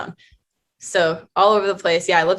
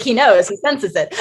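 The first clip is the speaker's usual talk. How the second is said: playful laughing quote; mock-spooky, amused; 3 semitones higher, 4 dB louder than usual. Jokingly quoting her own thought.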